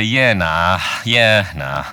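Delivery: put-on a light Australian accent on yeah, nah; an Australian accent with a relaxed shrug; Aussie yeah nah. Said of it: "like every Aussie would say".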